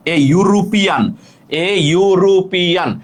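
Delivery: slow "ইউরোপিয়ান" opening on a clear "yu"; teacher's slow model of "ইউরোপিয়ান" with a consonant-like "yu"; "yu" pronunciation. Shown as a demonstration. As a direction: draw out "ইউরোপিয়ান" syllable by syllable, starting with a y-glide. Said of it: "ইউর উচ্চারণ যখন ইউ অথবা ওয়াও হবে".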